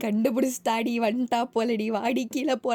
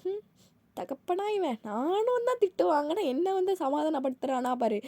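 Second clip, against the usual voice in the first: jealous grumble; 6 semitones higher than usual. Acted. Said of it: "யோசிச்சுக்கிட்டே".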